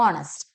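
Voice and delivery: ഓണസ്റ്റ് as "ON-ust", no breath before O; silent H. Shown as a demonstration. Teacher repeats it, silent H. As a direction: begin ഓണസ്റ്റ് on a clean vowel. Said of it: "എച്ച് ഇല്ല അവിടെ".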